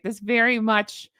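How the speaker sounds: deadpan, pretending the fake card is real; sarcastic. Real, not acted. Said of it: "I'm being very sarcastic here".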